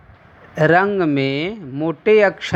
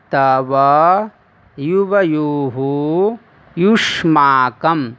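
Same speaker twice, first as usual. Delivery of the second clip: model recitation. Shown as a demonstration. Teacher reciting word forms for pupils to copy, measured recitation. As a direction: recite each form clearly for the class to repeat.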